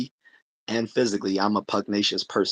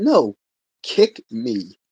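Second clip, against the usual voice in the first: imitating Bruce Lee; 3 semitones higher, 6 dB louder, much slower than usual. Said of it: "He said".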